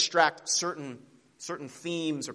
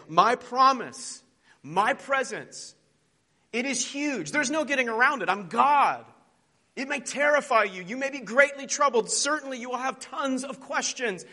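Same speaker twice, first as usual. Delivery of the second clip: high, loud, booming proclamation; God's mighty voice; 10 semitones higher, 5 dB louder than usual. Acted. Preacher voicing God to his listeners, loud and grand. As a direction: proclaim God's vast presence. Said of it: "He's saying".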